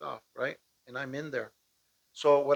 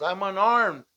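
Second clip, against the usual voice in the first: retold yell; 3 semitones higher, 4 dB louder than usual. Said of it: "I'm yelling at the top of my lungs".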